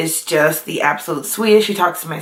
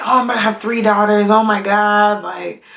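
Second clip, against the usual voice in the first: mock dismay of a husband; playfully overwhelmed, retold; joking panic. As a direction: lightly act out a joking dad's panic. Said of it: "being funny".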